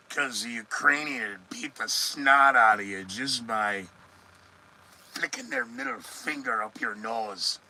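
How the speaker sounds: a slip into Scottish-Irish; Scottish-Irish accent. Real, not acted. Host mocking online supporters, Scottish-Irish accent slipping out. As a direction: let a Scottish-Irish lilt pop out unplanned. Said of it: "a Scottish-Irish accent just popped out".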